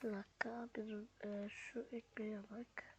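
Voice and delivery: breathy whisper, slowing down. Real, not acted. Noticing the bread, he whispers to himself. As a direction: hush it as you notice something.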